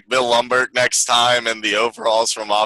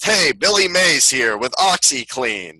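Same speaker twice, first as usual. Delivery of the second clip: scripted pitchman opener, drawn out; slow, lightly voiced TV ad read; Billy Mays; slower than usual. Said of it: "I'm doing a fully script".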